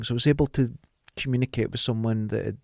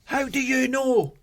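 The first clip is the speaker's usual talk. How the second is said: mock amazed believer; 12 semitones higher, slower than usual. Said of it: "George is here with you".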